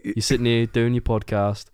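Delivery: light Love Island-style British accent, chatty; lightly put-on casual British accent, teasing; friendly mock-British host with a light casual British accent. Shown as a demonstration. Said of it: "now it's the more like".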